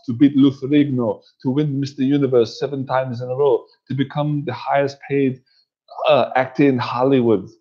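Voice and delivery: motivational speech in a mimicked Austrian accent; Arnold Schwarzenegger. Recalling his rise to highest paid actor, mimicked Austrian accent. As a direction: imitate an Austrian-accented champion telling his story. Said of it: "Arnold Schwarzenegger".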